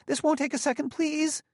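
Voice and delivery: very high pleading voice; desperate squeak. A narrator's reading. Gramianus begging Bailey to wait a second, desperate squeak. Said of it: "desperately, in what was almost a squeak".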